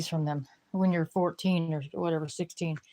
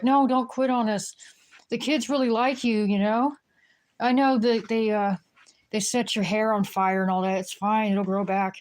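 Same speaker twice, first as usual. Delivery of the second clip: pleading mom; 3 semitones higher than usual. Retold or imitated. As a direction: coax the nanny to stay, pitched up. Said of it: "the mom would be like".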